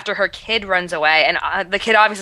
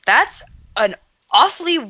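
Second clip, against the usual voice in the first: incredulous; 9 semitones higher than usual. Retold or imitated. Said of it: "I was like".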